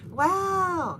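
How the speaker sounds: high, loud, drawn-out wow; amazed wow. Real, not acted. Streamer reacting to a viewer's message, amazed. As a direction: let out a big, impressed wow.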